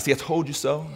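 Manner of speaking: lightly voiced chiding mother; hint of a nagging mom. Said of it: "His mom voice was in the background".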